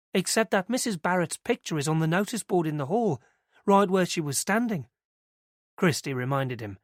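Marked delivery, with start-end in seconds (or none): 0.1-4.9 lightly voiced young woman, pitched higher; earnest young witness telling it eagerly; girl's voice. Christie telling Inspector Mariner what she saw, higher and eager.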